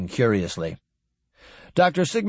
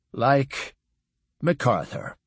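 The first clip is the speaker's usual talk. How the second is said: sadly; slower than usual. A narrator's reading. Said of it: "Horvath answered sadly".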